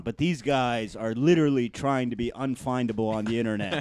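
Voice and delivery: mock-urgent, emphatic briefing; junior CIA investigator. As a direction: build an alarmed case to the boss. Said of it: "like a junior, like, computer investigator at Langley".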